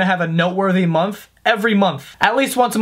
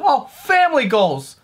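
slowly drawn-out gushing comment; mock commenter; 3 semitones higher than usual. Mocking a commenter on his family photo, slow gush. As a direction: stretch it like a cheesy fan. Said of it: "someone comment on a picture".

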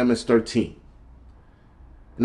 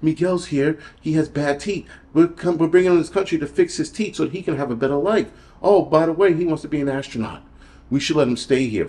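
lightly higher voice, mocking a sob-story appeal; a hint of a pleading charity-ad voice, mocked; mock sympathy plea; 4 semitones higher than usual. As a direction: parody the heartstring pitch with a touch of sarcasm. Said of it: "they wanna tug at our heartstrings and be like".

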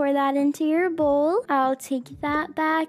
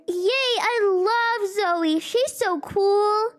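put-on high, eager little boy; 3 semitones higher, slower than usual. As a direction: play an excited young son. Son Jackson voiced by mom.

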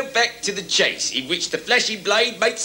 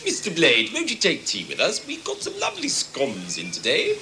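genteel lady voice; 3 dB quieter than usual. Acted. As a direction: offer scones like a tearoom lady. Genteel tea offer.

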